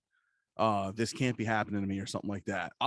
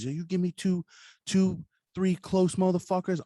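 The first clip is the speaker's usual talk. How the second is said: higher, slower, punchier retake; emphatic repeat; 9 semitones higher, 4 dB louder than usual. Retold or imitated. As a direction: lean in hard on the repeat. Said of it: "He's like".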